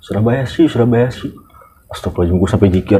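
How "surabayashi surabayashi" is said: put-on lighter Japanese accent repeat. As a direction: repeat the tourist's word with a Japanese lilt. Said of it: "Dia ngulangin lagi".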